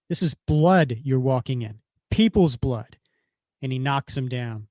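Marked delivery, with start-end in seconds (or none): 0.1-3.0 louder, hard reprimand; angry rebuke. Retold or imitated. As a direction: shame him for the bloodshed.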